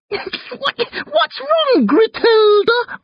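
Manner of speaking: high, teasing words through giggles; giggling taunt. A narrator's reading. Brother fending off sister, using hated name, giggling. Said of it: "I giggle".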